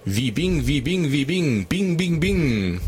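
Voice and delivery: hyped keynote CEO shouting a name; Steve Ballmer impression. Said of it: "wenn ich mal kurz irgendwie hier Steve Ballmer zitieren darf".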